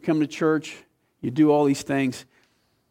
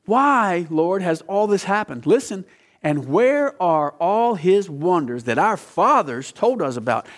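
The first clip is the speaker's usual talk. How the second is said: a touch of sarcasm; slower than usual. Retold or imitated. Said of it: "I catch a little bit of sarcasm in that".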